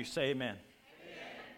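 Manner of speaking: preacher voice calling for amen; deep revival preacher call; southern preacher. Shown as a demonstration. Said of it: "That was my preacher voice".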